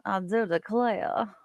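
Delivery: slow, lightly put-on Southern belle accent; Southern drawl. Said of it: "She talked like this throughout the whole movie".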